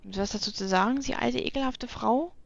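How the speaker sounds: a hammed-up cranky old geezer; grumpy old man. Grumpy character scolding woman.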